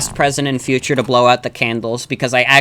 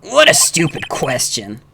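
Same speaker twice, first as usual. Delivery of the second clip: more restrained theatrical contempt; put-on prosecutor voice. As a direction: give the rival lawyer a haughty voice. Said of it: "I have to give him a voice".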